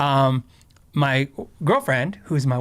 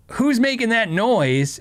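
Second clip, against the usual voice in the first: drill sergeant yell; 8 semitones higher, slower than usual. Retold or imitated. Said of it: "he just starts screaming in my face".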